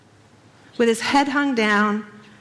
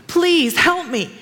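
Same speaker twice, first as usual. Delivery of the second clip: slow plea; 5 semitones higher, slower than usual. Retold or imitated. Desperate prayer on knees.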